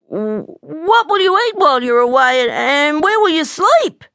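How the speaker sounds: high, stammering anxious cub; plaintive, worried young bear; worried little bear. A narrator's reading. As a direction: ask fretfully in a high child voice. Tearful little bear questions runaway friend.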